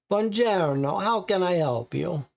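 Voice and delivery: put-on mechanic greeting in a light Italian accent; strong Italian accent. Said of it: "he asks with a strong Italian accent".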